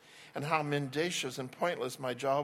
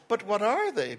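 fastidious; 8 semitones higher, 7 dB louder than usual. Acted. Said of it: "sounding fastidious".

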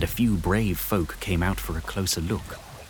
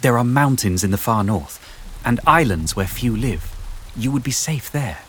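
put-on a bit higher, earnest girl's voice; lightly voiced young heroine; 5 semitones higher than usual. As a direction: reassure the beast, eager and sincere. Juliana voiced in story.

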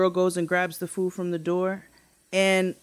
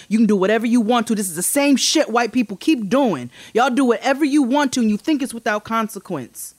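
retold angry lecture; 3 semitones higher, 3 dB louder, faster than usual. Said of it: "So I said".

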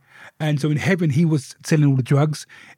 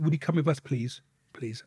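softer and softer polite plea; polite request; 2 semitones lower, 9 dB quieter than usual. Retold or imitated. Bouncers asking him to leave, softly polite. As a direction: fade it to near nothing.

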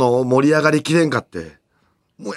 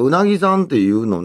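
a hint of regional Japanese accent; 地方訛りの運転手; 2 semitones higher than usual. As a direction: lightly mimic an older driver's provincial accent. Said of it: "ちょっと訛りがあって". (軽く訛ったおっさん運転手の真似)

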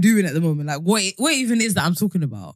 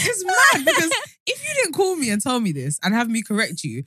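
very high, near-shouting through laughter; half-crying excited; 9 semitones higher than usual. Retold or imitated. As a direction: blurt it out, overwhelmed. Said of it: "I was like".

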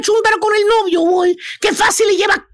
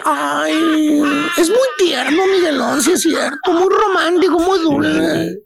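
mock-tender woman, lower and drawn out; Chuntara putting it on; 3 semitones lower, slower than usual. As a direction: coo it with exaggerated sweetness. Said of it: "la Chuntara pone carácter y dice".

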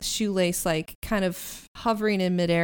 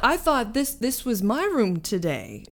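put-on southern accent; 3 semitones higher than usual. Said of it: "the only one with a southern accent".

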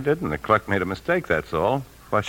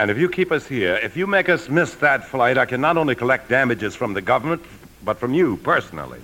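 angry threat; 5 semitones higher than usual. Acted. Threatening the customs official.

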